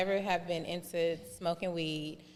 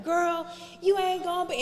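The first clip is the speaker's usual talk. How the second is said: imitating dad; 13 semitones higher, 6 dB louder than usual. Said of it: "he was like".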